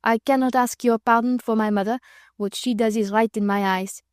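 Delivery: put-on broken English with a light French accent; stiff, proud young Frenchman in a French accent. Young Frenchman challenging Sir Percy, French accent. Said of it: "speaking in broken English".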